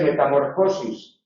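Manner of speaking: metamorfosis wrongly stressed meta-MÓR-fosis; shifted stress. Shown as a demonstration. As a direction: move the beat in metamorfosis back to MOR. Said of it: "no se dice metamorfosis".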